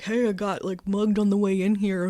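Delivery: loud punchy comic setup; stand-up opener. Retold or imitated. Mocking how a stand-up opens a set, loud. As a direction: boom it out like a club comic. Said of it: "I don't have to be like".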